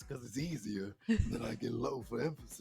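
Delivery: current Herbie voice. Shown as a demonstration. Player showing how Herbie sounds now, character voice. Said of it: "now it's just like this".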